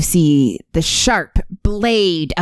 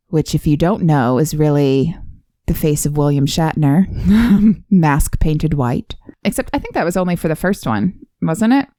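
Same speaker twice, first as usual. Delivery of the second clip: describing voice; 4 semitones lower than usual. Pretend. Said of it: "That's my describing voice".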